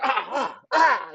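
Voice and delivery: acted-out "ah" of pain; mock pained yelp. Retelling the sting of scratching at work, mock pained yelp. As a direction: yelp as if stung, retold. Reacting to painful scratch in story.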